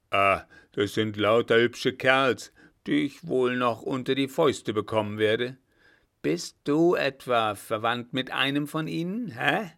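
put-on scoff, then needle the young officer; scornful old marshal. Blücher mocks the French marshals. (spöttisch polternder alter Feldmarschall)

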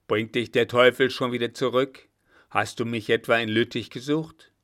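loud, delighted commander; hearty old field marshal. Acted. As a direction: greet the young officer with rough heartiness. Old field marshal Blücher speaks. (polternder alter Feldmarschall, erfreut)

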